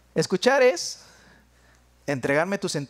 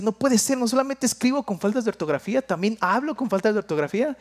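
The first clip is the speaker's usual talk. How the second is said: shocked realization; 4 semitones higher than usual. Retold or imitated. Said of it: "Y me puse a decir".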